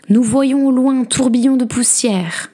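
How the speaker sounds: high-pitched lookout's report; calling back. A narrator's reading. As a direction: announce the sighting from up on the walls. Sisters calling back from the ramparts.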